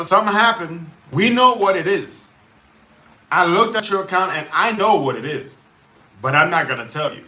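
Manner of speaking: exasperated impression of withholding support; mock support agent. Frustrated creator imitating YouTube support, mock stonewalling.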